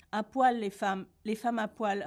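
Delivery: "À poil, les femmes" tried out, then turned round in another tone; vary the tune on each repeat of "À poil"; different tones. A narrator's reading. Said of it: "répéta plusieurs fois de suite Édouard sur différents tons". (« À poil » répété sur différents tons)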